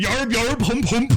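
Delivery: high, loud pirate gibberish; hammed-up cartoon pirate noises. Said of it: "cartoon pirates".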